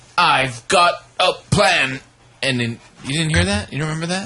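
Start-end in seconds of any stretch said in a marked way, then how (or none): 0.2-2.0 bad, clumsy, very slow, drawn-out heroic captain voice. Retelling a movie moment, quoting the character's bad Captain Kirk impression. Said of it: "his Captain Kirk impression".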